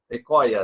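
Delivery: ECOIA, escola without S, L turned to a glide; child's mispronunciation. Retold or imitated. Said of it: "ela fala eco". ("ecoia", escola sem S e com I no lugar do L)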